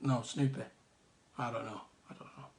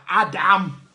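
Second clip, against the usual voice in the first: mock announcer; 4 semitones higher, 9 dB louder, slower than usual. Mock announcing Adam's Spam love.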